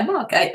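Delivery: Margate said firmly with a falling close; Margate settled on. Shown as a demonstration. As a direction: settle on Margate, stress on Mar. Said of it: "That's the right way to say it".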